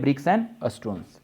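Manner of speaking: bricks and stones dragged out very slowly and softly. Shown as a demonstration. Teacher showing the plural to students, very slow. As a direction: stretch bricks and stones out word by word. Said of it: "plural में भी सही है".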